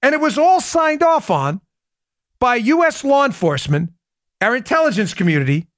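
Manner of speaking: emphatic slow summary, pausing between phrases; slow, deliberate reading. Real, not acted. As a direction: read it slowly, phrase by phrase, so every point lands. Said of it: "I'm gonna read it slow".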